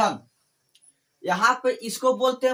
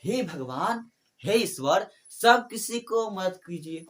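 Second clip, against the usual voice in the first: prayerful call; slower than usual. Shown as a demonstration. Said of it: "तो हम पुकारा भगवान को".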